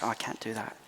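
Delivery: quiet, falsely modest refusal; mock humble refusal. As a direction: play the coy humble kid. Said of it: "I said".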